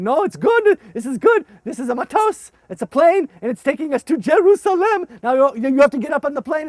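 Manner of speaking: loud, high, eager coaxing; coaxing kids. Retold or imitated. Urging scared children onto the plane, loud and high. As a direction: call out brightly to win them over. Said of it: "So I tried to calm them down".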